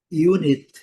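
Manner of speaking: "unit" as yoo-nit; "unit" com iu no início; English unit. Shown as a demonstration. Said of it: "o U com som de U". ("unit" dito iunit)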